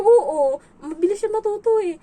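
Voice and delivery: eager proud yes; proud excited answer. Retold or imitated. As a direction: boast about the child. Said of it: "Sabi ko".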